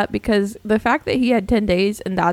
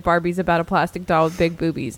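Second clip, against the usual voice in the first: mock comedian voice; 3 semitones lower than usual. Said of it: "They showed him when he said".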